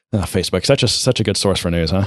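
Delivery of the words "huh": ordinary talk, nothing marked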